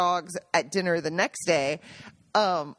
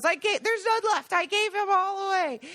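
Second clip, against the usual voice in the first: quoting Rosanna; 10 semitones higher than usual. Retold or imitated. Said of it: "And she goes".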